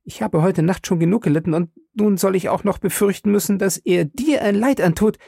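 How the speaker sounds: high, fast, desperate pleading; cling to him and beg him to stay; frantic cry. A narrator's reading. Wife begging her husband not to leave, frantic. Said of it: "klammerte sich an ihn und schrie".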